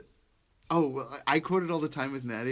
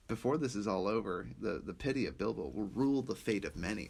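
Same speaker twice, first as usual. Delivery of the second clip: quiet Gandalf quote; 3 semitones lower, 4 dB quieter than usual. Retold or imitated. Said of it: "he's like".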